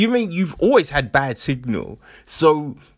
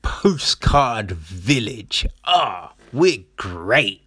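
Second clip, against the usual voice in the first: hammed-up smugness; mock smug; 2 semitones lower than usual. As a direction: imitate self-satisfied villagers, stretching the praise. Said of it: "you're all smug going".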